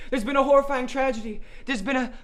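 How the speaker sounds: put-on British accent. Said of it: "saying murder in a British accent".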